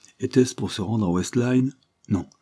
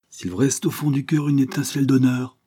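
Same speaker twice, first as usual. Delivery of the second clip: mild outcry; 6 semitones higher than usual. Acted. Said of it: "s'écria-t-elle".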